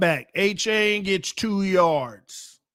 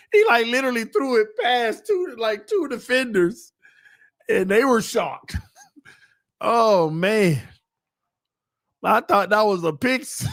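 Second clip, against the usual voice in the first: higher voice, breaking into laughs; laughing disbelief; 4 semitones higher than usual. Real, not acted. Fan reacting to a near interception, laughing in disbelief. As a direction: talk through amazed laughter. Amazed laughter at risky completion.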